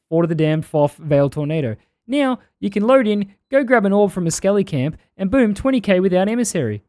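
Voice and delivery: put-on unconvincing New Zealand accent; wobbly put-on Kiwi reading; bad Kiwi accent. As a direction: attempt a Kiwi accent and miss. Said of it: "this isn't a good Kiwi accent at all".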